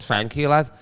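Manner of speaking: "Thank you, lad" with TH said as F; retold "Thank you, lad", opening on an F; accented thank you. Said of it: "'cause of my accent".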